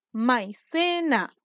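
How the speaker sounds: MAICENA very slowly, split as mai, ce, na; teacher sounding out MAICENA as mai-ce-na; syllable by syllable. Shown as a demonstration. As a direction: break MAICENA into three drawn-out syllables. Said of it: "Tenemos tres sílabas".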